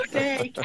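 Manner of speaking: London "dirty cow" as DUR-ee CAAH; long vowels, dropped T. Shown as a demonstration. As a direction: say "Dirty care" London-style, vowel stretched. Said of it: "Your vowels get really long".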